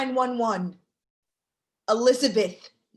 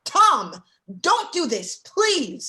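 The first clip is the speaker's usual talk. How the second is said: desperate plea; 3 semitones higher, 4 dB louder, much slower than usual. Acted. Begging friend to stop.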